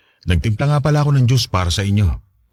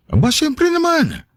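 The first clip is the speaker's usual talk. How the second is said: slow, much higher proud burst; proud exclaim; slower than usual. Acted. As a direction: beam with pride at the compliment. Proud father answers praise. (masiglang pagmamalaki ng tatay)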